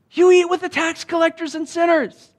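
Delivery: high, loud mocking accusation; sneering accuser. The elder brother's people accusing Jesus, high, loud and sneering. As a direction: repeat the sneer of the self-righteous.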